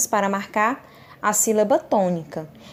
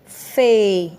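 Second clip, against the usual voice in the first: "fe" on its own, louder and drawn out; stressed syllable; 5 dB louder than usual. Shown as a demonstration. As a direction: punch out "fe" as the strong syllable. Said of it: "pronunciei com mais intensidade".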